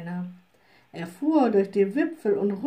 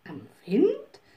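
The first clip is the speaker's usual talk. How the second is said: puzzled echo. Acted. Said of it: "rief die kleine Hexe".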